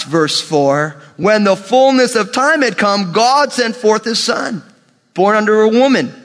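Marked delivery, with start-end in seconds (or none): 1.2-6.1 measured sermon scripture voice; scripture reading. Acted. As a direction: read each phrase like holy writ. Reads scripture aloud.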